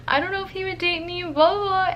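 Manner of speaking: high-pitched mock panic; hammed-up girlish dithering; retold freaking out. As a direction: fret in a high, flustered voice. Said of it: "I was, like, freaking out".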